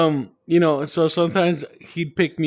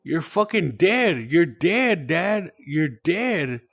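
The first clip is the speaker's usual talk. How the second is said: raised, insistent; 5 semitones higher, slower than usual. Retold or imitated. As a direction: hammer home that he's dead. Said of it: "I'm like".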